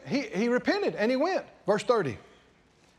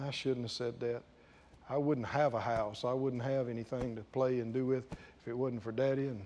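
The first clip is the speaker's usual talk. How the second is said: much softer and lower, regretful; remorseful inner voice; 11 semitones lower, 9 dB quieter than usual. Acted. Son thinking over his refusal, soft and remorseful. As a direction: murmur it like a son whose conscience hurts. Repentant son's inner thoughts.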